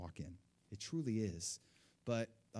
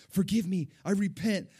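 retold scream; 8 semitones higher, 9 dB louder than usual. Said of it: "I screamed".

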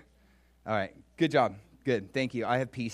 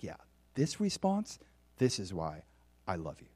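tender God; 5 semitones lower, 3 dB quieter than usual. Acted. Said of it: "God's like".

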